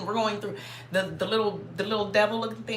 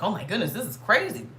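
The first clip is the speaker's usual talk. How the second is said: rising, stunned disbelief; high squeaky disbelief; shocked inner voice; 5 semitones higher, 4 dB louder than usual. Retold or imitated. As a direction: gasp it out as a shocked thought. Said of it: "I'm like".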